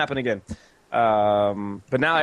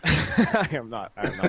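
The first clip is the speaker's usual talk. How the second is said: laughing mock denial. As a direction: echo the denial through laughter. Host laughingly echoes guest's denial.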